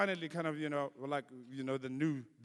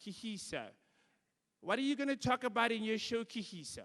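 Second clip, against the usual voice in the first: mock white radio host; 5 semitones higher than usual. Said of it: "she said to me".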